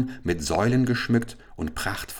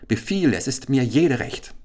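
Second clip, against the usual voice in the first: eager cry; 6 semitones higher, 3 dB louder than usual. Acted. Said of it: "schrie Chasid".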